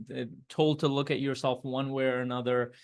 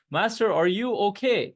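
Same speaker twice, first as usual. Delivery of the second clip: high, louder anxious call; calling through a door; 8 semitones higher, 5 dB louder than usual. Retold or imitated. Student calling to his crying master, high worried call. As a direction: call in to someone behind a closed door.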